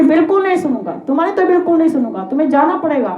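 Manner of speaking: high, insistent acted dismissal; a king's emphatic brush-off; adamant refusal. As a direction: refuse outright and send them away. King again refuses and banishes Kalyug.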